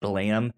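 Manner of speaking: "Balam" said as two syllables, ending in a rising tune; "Balam", not spelled out letter by letter; pronounce the name. Shown as a demonstration. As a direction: say "Balam" carefully, as if setting the record straight. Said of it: "pronounced Balam".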